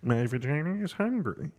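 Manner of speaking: Kermit the Frog voice. Pretend. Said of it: "that voice of".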